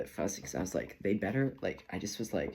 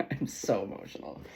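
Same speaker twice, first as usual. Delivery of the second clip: laughing through tears. Real, not acted.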